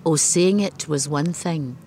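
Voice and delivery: measured recitation, each line set apart by pauses; poem reading. Acted. Poet reading her bilingual poem to the interviewer, steady recitation. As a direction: read it like a poet giving her own verse.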